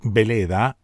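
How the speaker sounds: Veleda spelt and said with a B, Beleda; with double B. Shown as a demonstration. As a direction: say Veleda starting with a firm B sound. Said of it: "con doble B".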